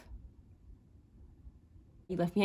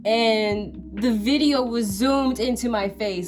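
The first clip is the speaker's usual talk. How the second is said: exasperated; 4 dB louder than usual. Real, not acted. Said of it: "I am so frustrated right now".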